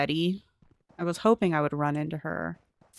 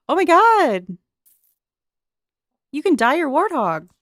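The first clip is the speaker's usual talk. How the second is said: excited gasp; 8 semitones higher, 10 dB louder than usual. Real, not acted. Discovering warthog can be dyed.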